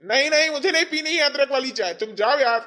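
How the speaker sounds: loud, impatient brush-off; irritated refusal. Acted. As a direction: shoo the nagging wife away. Husband refuses tea in quarrel.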